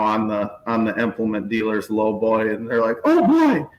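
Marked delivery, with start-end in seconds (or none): 3.0-3.7 high squealing oh boy, hammed up; mock giddy excitement. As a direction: play the overeager kid spotting a toy. Mocking guys seeing new tractor.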